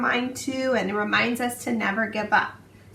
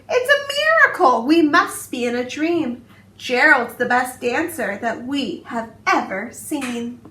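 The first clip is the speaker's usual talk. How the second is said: amazed shout; 5 dB louder than usual. Acted. Animals seeing Gerald dance for the first time, amazed shouting. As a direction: cry out in wonder at a miracle. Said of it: "They shouted".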